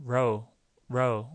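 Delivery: English R with retracted tongue; "row" begun with tongue pulled back, not touching. Shown as a demonstration. Teacher contrasts it with low, retracted R. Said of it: "이건 잡아당기니까".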